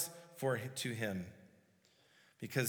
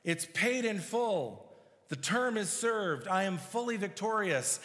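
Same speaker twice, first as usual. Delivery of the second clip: forceful victory; 4 semitones higher than usual. Acted. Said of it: "saying this forcefully and victoriously".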